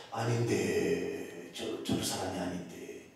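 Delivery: low, soft, drawn-out hesitation; puzzled onlooker thinking aloud, trailing low; doubtful. Acted. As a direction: murmur it slowly, unconvinced. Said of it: "고개를 갸우뚱하면서 이렇게 있는".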